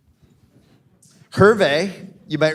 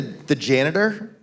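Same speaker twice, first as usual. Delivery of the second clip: slow drawn out; slower than usual. Shown as a demonstration. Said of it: "Has to be a little slower".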